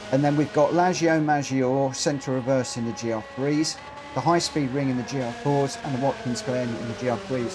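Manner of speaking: breathless after racing; short of breath from nerves. Real, not acted. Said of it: "I keep running out of breath".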